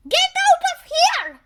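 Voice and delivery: exasperated outburst. Acted. Chief exploding at the silly excuse, loud and laughing. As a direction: blow up in disbelief.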